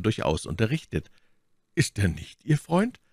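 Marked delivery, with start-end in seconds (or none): 1.7-3.0 casual question, lifted at the end; indifferent tone. A narrator's reading. The Baron questioning Milady about her friend, indifferently. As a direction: ask it as if it hardly matters. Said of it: "mit gleichgültigem Ton".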